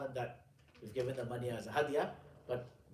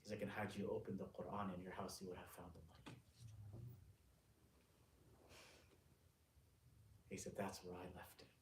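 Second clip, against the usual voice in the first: low, soft, halting narration; hushed storytelling; 3 semitones lower, 10 dB quieter than usual. A narrator's reading. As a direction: tell it quietly, with long pauses.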